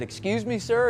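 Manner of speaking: did I hear that right, sir; disbelieving. Retold or imitated. Recruit asking officer to repeat, high and incredulous.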